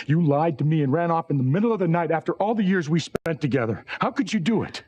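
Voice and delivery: hurt, angry reproach. Acted. Man confronts the woman who left him, hurt and angry. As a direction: build to a wounded demand. Acted quarrel over leaving.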